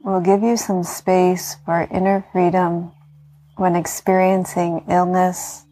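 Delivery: guided meditation. Acted. Yoga teacher talking listeners into healing rest, calm meditation voice.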